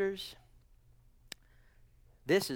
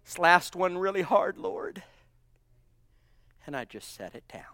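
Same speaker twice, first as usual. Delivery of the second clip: hushed prayer. Acted. Quiet prayer to the Lord.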